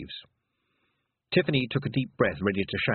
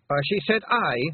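loud, higher insistence; shouted; 9 semitones higher, 4 dB louder than usual. Acted. Rob Anybody shouting down Fionn before the lads. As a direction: shout him down. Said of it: "Rob Anybody shouted".

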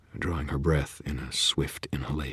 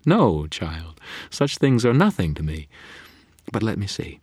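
high, loud amused fairy voice; lofty fae queen; haughty fairy; 5 semitones higher, 5 dB louder than usual. Acted. Leah voiced in story.

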